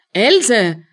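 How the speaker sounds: loud cry of a name; alarmed call. Acted. Aunt sees Else collapse, loud alarmed call.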